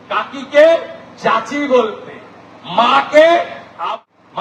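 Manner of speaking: emphatic political oratory with pauses between phrases; rally speech. Real, not acted. Politician rallying a crowd to defend Bengali culture, declamatory.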